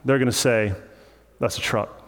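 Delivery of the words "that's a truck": light imitation of a Southern accent; a hint of mock Southern speech. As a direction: say it like a Southerner, quickly tossed off. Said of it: "if you ask somebody from the south".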